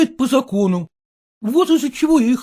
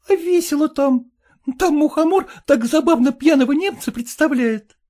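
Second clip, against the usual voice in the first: put-on girl's voice, higher, lightly reproachful; Dunka's voice; 6 semitones higher than usual. Dunka chiding jealous Gleb Kirillovich, higher girlish voice. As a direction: chide him for being jealous.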